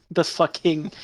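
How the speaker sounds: breaking into laughter mid-word; can't keep a straight face; laughing. Real, not acted. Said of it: "I can't even say it with a straight face".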